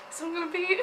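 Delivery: words dissolving into a giggle; real giggle breaking through; breaking into laughter. Real, not acted. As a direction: try to restart but crack up. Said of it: "Um, okay".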